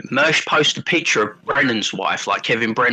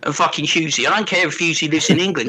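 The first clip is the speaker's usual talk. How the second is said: lightly voiced South London geezer ranting; a hint of a London lad mouthing off, bruv; mild South London tirade at a mate. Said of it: "South London James voice".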